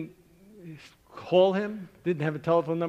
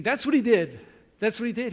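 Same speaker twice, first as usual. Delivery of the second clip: excited realisation; 5 semitones higher, 4 dB louder than usual. Retold or imitated. Excited realisation while writing.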